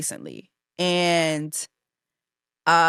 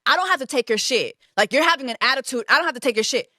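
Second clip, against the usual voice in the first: sassy stylist voice, pitched up; mocking the stylist; 5 semitones higher, faster than usual. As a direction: mimic her snippy comeback, a bit higher. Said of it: "her response to me was".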